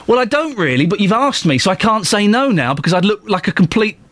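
lightly acted awkward refusal; mock reluctance. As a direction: act cornered into saying yes. Acted reluctant reply to sponsorship request.

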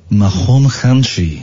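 slow, hammed-up French accent; careful French-accented vowels; comic Frenchman, slow and deliberate. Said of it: "in my French accent".

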